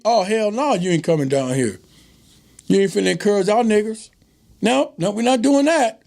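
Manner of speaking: sarcastic mock bigot. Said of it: "I'm being sarcastic with that".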